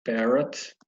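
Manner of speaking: "Parrot" as "pérrat", rising end; English parrot. Shown as a demonstration. Teacher models the English word for pupils. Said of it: "pronúncia, pra gente não errar".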